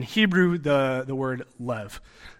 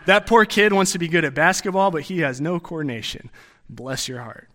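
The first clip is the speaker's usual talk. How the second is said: mock-sweet Southern pity; 2 semitones higher than usual. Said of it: "It's used in the context like".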